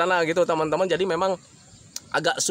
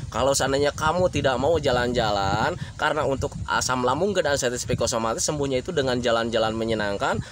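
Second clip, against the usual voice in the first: lower-pitched, even explanation; calm reasoning with a patient; gentle explaining; 5 semitones lower than usual. Acted. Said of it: "kalian cukup kasih penerangan saja".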